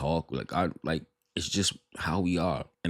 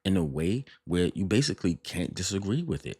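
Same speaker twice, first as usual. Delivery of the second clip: mock innocent; 4 semitones higher than usual. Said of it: "you making it seem like".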